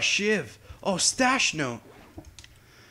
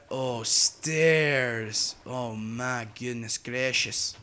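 odd put-on voice; 2 semitones lower, much slower than usual. Real, not acted. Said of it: "Why am I talking like this?".

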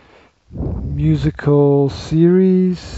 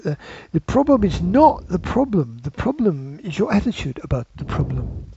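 put-on second, broader go at a London accent; South London accent; 3 semitones higher than usual. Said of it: "down South London, people talk like this".

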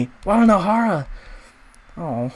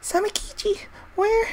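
calling out; 14 semitones higher, 6 dB quieter than usual. Real, not acted. Calling lost friend in dark.

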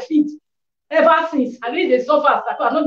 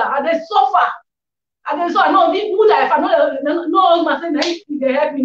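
pleading; 3 semitones higher than usual. Real, not acted.

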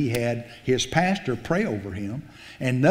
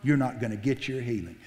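devil's voice; 5 dB quieter than usual. Retold or imitated. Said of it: "That's what the devil said".

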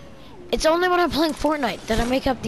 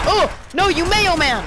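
shouted silly insult, raised pitch; mock outrage; 5 semitones higher than usual. Real, not acted. Gamer yelling at an enemy skin, mock outrage. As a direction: yell it like a cartoon rival.

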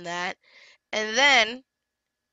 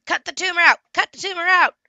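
angry shout; 9 semitones higher, 7 dB louder, faster than usual. Real, not acted. Venting at viewers about client, angry shout. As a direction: shout it, high and loud.

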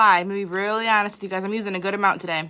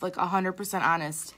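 sleepy voice. Real, not acted. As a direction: talk like you just woke up. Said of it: "I even have sleepy voice".

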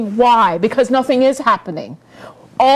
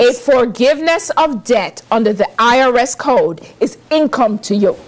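said slowly. Real, not acted. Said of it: "let me say this slowly".

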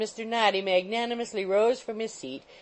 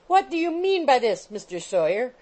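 high, loud, shrill demand; shrill landlady; 6 semitones higher, 5 dB louder than usual. A narrator's reading. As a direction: screech at the lodger like an outraged landlady. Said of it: "with great shrillness and rapidity of utterance".

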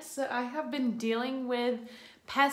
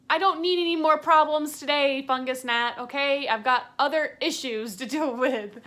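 mock scolding; 5 dB louder than usual. Scolding the fungus gnat.

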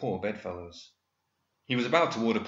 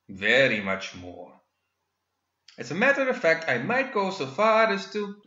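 much higher, smug gentleman villain; gloating villain; 3 semitones higher, 3 dB louder than usual. Acted. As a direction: taunt with polite menace. Villain boasts.

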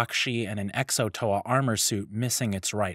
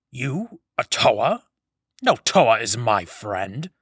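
put-on old Turaga voice; 6 dB louder, slower than usual. Turaga rejects the Toa.

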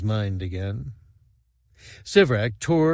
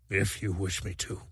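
choked-up, much softer, holding back tears; words caught in a tight throat; thickly; 2 semitones lower, 8 dB quieter than usual. A narrator's reading. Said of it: "Sivrak said thickly".

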